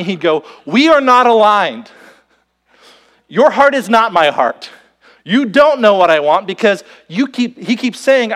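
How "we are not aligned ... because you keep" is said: mock shout. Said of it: "if he would shout at me".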